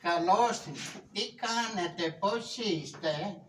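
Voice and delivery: a lightly voiced sweet lady greeting; a dainty, sugary greeting pitched a bit high; sweet little voice. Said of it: "Τι γλυκιά φωνούλα που έχεις".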